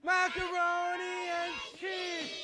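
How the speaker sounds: slow, loud, drawn-out shout; loud magic words. Acted. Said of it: "say the magic words nice and loud".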